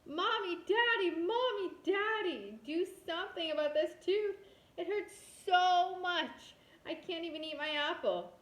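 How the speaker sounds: high, loud yell, stretched out on hurts so much; a child wailing loudly at a hurting tooth; yelling in pain. Acted. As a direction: wail for both parents. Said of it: "and yelled".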